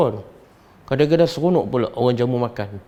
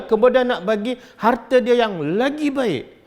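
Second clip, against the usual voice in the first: rising higher and more fervent, line by line; Abu Bakar's lament; 6 semitones higher than usual. Retold or imitated. Abu Bakar explaining to the companions why he weeps, climbing higher. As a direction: build from earnest to high-pitched awe. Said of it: "Abu Bakar menangis sebab dia kata".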